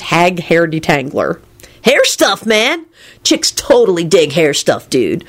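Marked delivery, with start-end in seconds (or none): 1.8-5.2 sage. A narrator's reading. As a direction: advise sagely, like a laid-back dude. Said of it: "Kenny told the giant sagely".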